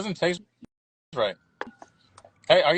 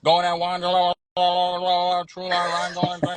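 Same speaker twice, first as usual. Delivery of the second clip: auctioneer; much slower than usual. Pretend. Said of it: "He's over here sounding like an auctioneer".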